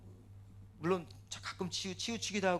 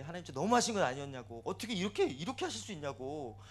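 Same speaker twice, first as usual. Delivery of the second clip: petulant complaint. Retold or imitated. Believer protests to God on the mountain, petulant. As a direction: plead indignantly, as in a mild tantrum. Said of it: "더 앙탈 부리고".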